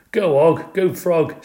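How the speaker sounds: high, excited egging-on yell; yelled cheer. A narrator's reading. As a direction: cheer on your galloping mount. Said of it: "I yelled".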